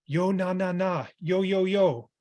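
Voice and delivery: put-on quick, punchy child's chant; imitating a child's lively vocal play; rapid, vigorous imitation. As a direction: fire off the syllables fast and bright. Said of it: "she rapidly and vigorously says".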